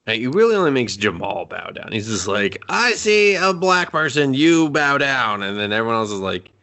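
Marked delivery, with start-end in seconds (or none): 2.7-5.4 slow, high, emphatic command; slow drawn-out bossy demand; mock tough-guy order. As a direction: lay it down slowly like a bully. Ricky ordering everyone to bow.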